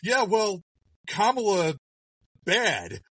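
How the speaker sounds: high dumb mock voice, clipped; playing the simple-minded voter; mocking progressives. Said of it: "and they're like".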